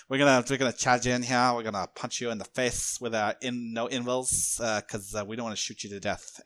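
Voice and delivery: hammed-up Flyrant accent, starting loud and easing off; mock Flyrant accent, announcing the attack; put-on Flyrant accent. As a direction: run with a silly monster accent. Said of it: "we're gonna run with it".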